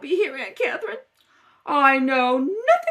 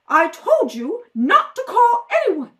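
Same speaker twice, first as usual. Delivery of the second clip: angry scolding; 6 dB louder than usual. Acted. Aunt scolding Selma.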